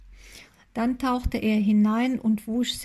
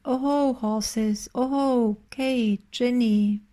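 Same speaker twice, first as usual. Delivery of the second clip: calling the horses into the forest; long calls across the woods; calling for the lost animals; slower than usual. A narrator's reading.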